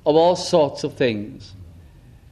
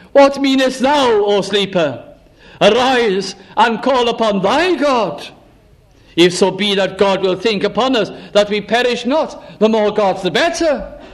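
shipmaster's rebuke; 2 semitones higher than usual. Retold or imitated. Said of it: "the shipmaster came to him and said unto him".

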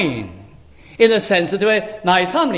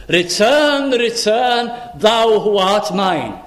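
divine summons; 3 semitones higher, slower than usual. Acted. God calls back the believer who is his, pleading summons. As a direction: call the wanderer home, pitch lifted. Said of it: "So what he's saying is this".

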